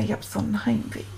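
quick, soft confession of homesickness; quiet homesick. Retold or imitated. Homesick boy quietly admits his homesickness to Paul, hushed. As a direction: say it fast and small, holding back tears.

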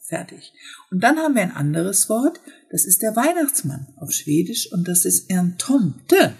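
ordinary talk, nothing marked

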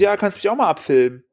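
lightly voiced young woman asking a favour; imitating young woman. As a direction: pitch lifted, mimicking her insistence. Young woman repeats her request.

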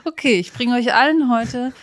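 half-laughing pretend class opener; playful fake yoga instructor; mock yoga teacher. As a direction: announce the lesson while giggling. Jokingly plays yoga teacher.

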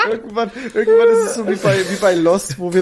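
words pushed through giggles; laughing while talking. Real, not acted. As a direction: laugh through the whole sentence. Lachend erzählte Lost-Anspielung. (lachend erzählt)

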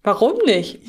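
normal talking voice

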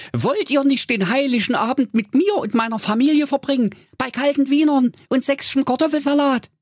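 very high-pitched, joyful nephew voice; overjoyed greeting to a dear uncle; delighted. A narrator's reading. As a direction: gush happily in a high character voice. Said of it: "sprach erfreut".

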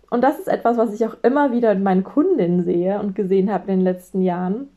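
usual speaking voice

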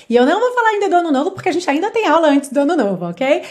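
bubbly rush. Real, not acted. Cheerful hurry.

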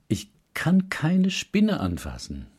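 whispered slowly, as if scared of the spider; hushed slow whisper of "Spinne" fear; fearful whisper. Pretend. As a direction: breathe it out like a frightened confession. Voicing a fearful belief.

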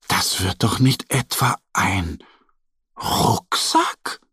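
wide-eyed wonder at the end; amazed. A narrator's reading. Mo realises the bag becomes a backpack, amazed gasp. Mo guesses the surprise.

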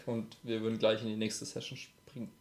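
hushed quick aside; whisper. Real, not acted. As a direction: drop to a whisper.

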